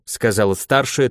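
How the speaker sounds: usual speaking voice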